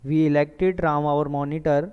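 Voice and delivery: slow and deliberate, word by word; slow dictation. Shown as a demonstration. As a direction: give the sentence slowly for note-taking. Teacher dictates example sentence. (धीमे स्वर में लिखवाना)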